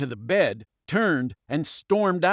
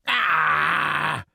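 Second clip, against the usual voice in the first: loud shout. A narrator's reading. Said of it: "There was a loud".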